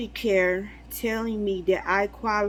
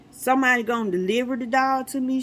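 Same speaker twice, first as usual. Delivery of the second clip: surprised; 4 semitones higher, 3 dB louder, faster than usual. Retold or imitated. Disbelief at dog in mail.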